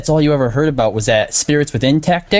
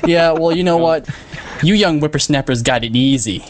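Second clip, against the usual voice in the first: lightly voiced cranky old-timer; old prospector. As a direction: grumble like a grandpa scolding youngsters. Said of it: "Way to go, Grandpa".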